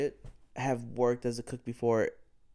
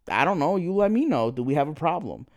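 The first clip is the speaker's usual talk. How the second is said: louder, higher defiant comeback; retold confrontation; 3 semitones higher, 4 dB louder than usual. Answering the staring girl with a defiant mock challenge. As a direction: throw the question right back at her.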